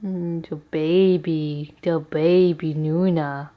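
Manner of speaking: slow, low cooing; puppy voice. Real, not acted. Owner cooing at her puppy, slow and low. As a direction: murmur fondly to the puppy. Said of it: "My voice. So annoying".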